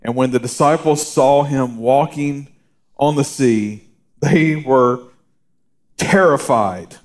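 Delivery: slow, deliberate reading of the verse; scripture reading. Acted. Pastor reading scripture to the congregation, slow and deliberate. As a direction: read the gospel slowly and solemnly.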